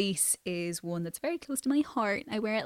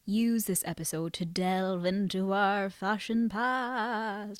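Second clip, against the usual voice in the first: slow, eerie campfire-story delivery; spooky voice; slower than usual. Real, not acted. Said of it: "I'm putting on a spooky voice".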